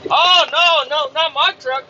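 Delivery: high-pitched protesting imitation; mocked denial. Coworker denying it is his truck, mocking imitation. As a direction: mimic a coworker disowning the problem.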